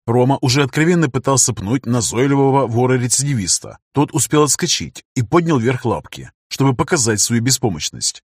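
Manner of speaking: ordinary delivery, nothing marked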